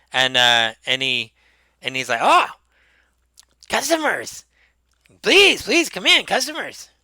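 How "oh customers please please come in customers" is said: very high, eager, excited shopkeeper voice. Voicing a small robed figure welcoming customers into a shop: excited shopkeeper voice. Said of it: "He's really excited".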